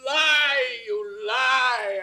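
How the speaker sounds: shouting liar; furious accusation. Acted. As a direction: spit it at him. King accuses Camillo of lying.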